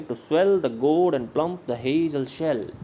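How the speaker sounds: slow da-DUM reading, "swell", "gourd", "plump" and "shell" stressed; iambic beat. Shown as a demonstration. Teacher demonstrates the meter to the class, slow and rhythmic. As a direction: tap out the meter with your voice. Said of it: "तो इसको हम बोलेंगे, जैसे बोलेंगे".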